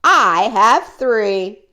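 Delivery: very high, loud gleeful yell, slowing at the end; gleeful high yell of triumph. Acted. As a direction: whoop with triumph. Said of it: "Gertrude yelled".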